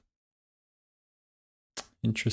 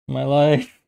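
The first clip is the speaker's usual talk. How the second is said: dramatic sigh; 5 semitones higher, 4 dB louder than usual. Real, not acted. Groaning over a blunder.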